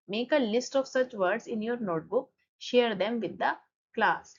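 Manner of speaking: slow, careful reading of the English line; slow textbook reading. Shown as a demonstration. Teacher reads the book line slowly to students. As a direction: spell it out for the class, word by word.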